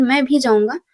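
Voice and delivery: भी pushed up and out in मैं भी जाऊंगा; stress on भी. Shown as a demonstration. Teacher contrasting with मैं जाऊंगा, stress on भी. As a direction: hit भी so मैं stands out. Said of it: "इस शब्द पर जोर दिया जा रहा है".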